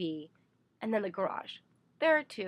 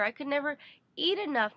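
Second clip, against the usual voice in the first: ordinary delivery, nothing marked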